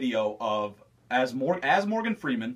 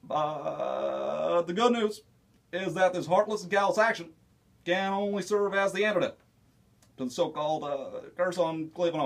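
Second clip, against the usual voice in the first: Barack Obama impression. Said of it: "Barack Obama".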